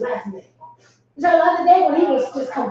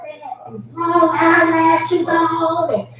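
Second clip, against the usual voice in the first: drawn-out, sing-song retold complaint; imitating his indignant griping; mimicked rant; 2 semitones higher than usual. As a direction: stretch it out like a scandalized ranter. Mimicking husband's rant about women.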